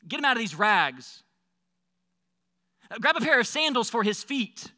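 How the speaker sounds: jubilant orders. Acted. Father gives joyful orders to servant.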